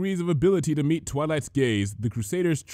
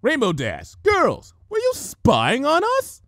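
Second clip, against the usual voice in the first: high, loud slow accusing question; sharp scolding; snapped; 13 semitones higher, 6 dB louder, slower than usual. Acted. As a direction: snap at them like a scolding teacher. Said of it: "Twilight snapped".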